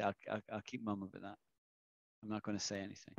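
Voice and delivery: soft, quick secret-keeping; hushed promise. Retold or imitated. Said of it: "Anjali tells me a secret and I say".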